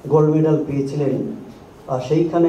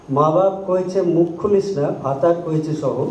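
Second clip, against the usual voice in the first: Shershabadia poem recitation. Shown as a demonstration. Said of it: "তার কয়েকটা line".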